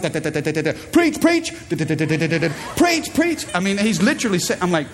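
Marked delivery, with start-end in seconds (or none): 0.0-0.7 imitating his little son. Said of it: "flips open the Bible and says". 0.9-1.5 put-on high piping "Preach, preach" like a little boy; little son's high excited chant; toddler squeal. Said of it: "flips open the Bible and says". 1.7-3.5 imitating his little son. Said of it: "flips open the Bible and says".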